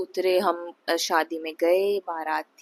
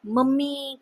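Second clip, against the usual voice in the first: yelling for mum; 5 semitones higher, slower than usual. Retold or imitated. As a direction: shout "mummy" up high like waking her in panic. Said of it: "एकदम ज़ोर से ... चिल्लाया".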